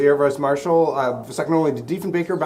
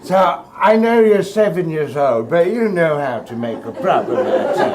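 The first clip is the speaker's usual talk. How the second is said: hoity-toity grandma; 2 semitones higher than usual. Retold or imitated. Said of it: "kind of a hoity-toity".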